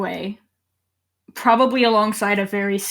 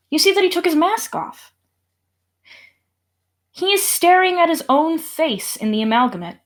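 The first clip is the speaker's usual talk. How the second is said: higher, intent storytelling; dramatic reveal narration; 5 semitones higher than usual. A narrator's reading. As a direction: lift the voice for the big reveal. Game master reveals the twist.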